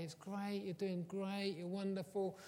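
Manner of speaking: lightly voiced mum praising her child; gushing mum. Mum praising her children after parents' evening, gushing. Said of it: "my mum would come in and she'd say".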